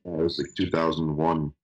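over a crackly telephone line; crackly phone line. Real, not acted. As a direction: voice through a bad phone connection. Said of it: "a rather crackly telephone wire".

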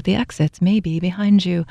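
calm cabin safety announcement; soothing flight attendant delivery; airline stewardess voice. Retold or imitated. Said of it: "we need the airline stewardess voice".

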